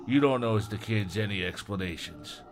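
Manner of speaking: a different voice for the partner; changed character voice. Acted. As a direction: give the partner his own voice. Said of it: "I'm changing his voice".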